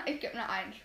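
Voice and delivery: laughing through the words. Real, not acted. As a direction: giggle while saying it.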